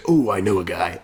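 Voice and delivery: cool, low-pitched quote; Falcon. Acted. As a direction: say it low and softly, like a cool sidekick. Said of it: "that was your coolest Falcon voice".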